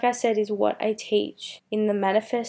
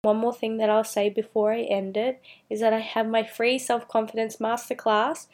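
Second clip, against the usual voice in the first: hoarse, strained throat; pushing through a raspy voice; voice giving out. Real, not acted. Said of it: "Sorry, I'm dying".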